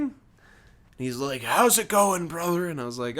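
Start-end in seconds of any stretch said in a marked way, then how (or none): 1.4-2.7 lightly imitated wrestler-like redneck, slightly lifted; Hulk Hogan. Redneck chatting up a store worker, light Hogan-style voice. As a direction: greet like a wrestler, not too big. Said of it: "sounds like his voice is like Hulk Hogan".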